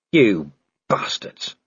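slow, growled insult; growled curse. Acted. Vimes cursing the watching werewolves from the tree, growled. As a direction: growl it with understated anger. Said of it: "Vimes growled".

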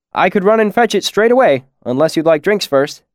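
lightly voiced friendly innkeeper; servile, eager to please. A narrator's reading.

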